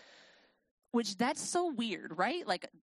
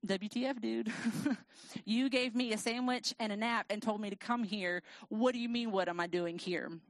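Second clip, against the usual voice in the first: sarcastic. Retold or imitated. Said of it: "my baseline is sarcasm".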